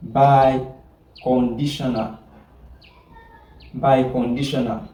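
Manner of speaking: Biconditional drawn out slowly, syllable by syllable; slow repetition. Shown as a demonstration. Teacher repeating the new term for the class, slowly. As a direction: stretch out Biconditional so students catch it.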